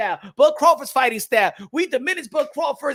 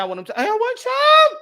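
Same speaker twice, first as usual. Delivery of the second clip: mock indignant reply; 13 semitones higher, 6 dB louder than usual. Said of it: "And I said".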